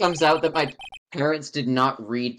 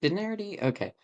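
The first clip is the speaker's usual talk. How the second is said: lion puppet voice; 7 semitones higher, 5 dB quieter, much faster than usual. Acted. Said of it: "the look of a lion puppet".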